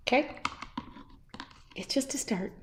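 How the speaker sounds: soft whisper to herself. Real, not acted. To herself as she starts painting, a whisper. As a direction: breathe it out as a private note.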